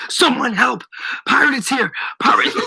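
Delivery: high, urgent cries; screaming for help. A narrator's reading. Shopkeeper calls for help while dragged back, screaming. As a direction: call out for rescue in alarm.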